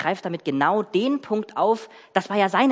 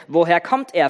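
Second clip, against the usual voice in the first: a touch of sternness, slightly louder; stern question; 4 dB louder than usual. Acted. Joseph questions his unrecognising brothers, mildly stern. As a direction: ask like a suspicious ruler, understated. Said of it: "fragte er sie streng".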